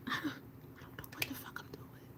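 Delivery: breathy laughing whisper, barely voiced. Real, not acted. Whispering to her stream that she's lost. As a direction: confess it under your breath. Admits cluelessness mid-makeup, laughing.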